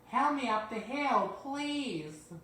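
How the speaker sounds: high, loud breathless plea; out of breath from the climb; panting. Acted. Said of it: "panted James".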